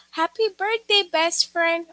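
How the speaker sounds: high, loud, cheerful birthday wish; excited exclamation. Shown as a demonstration. Teacher demonstrates an exclamation to the class, excited and loud. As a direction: sing out a happy birthday like you mean it. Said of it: "For example".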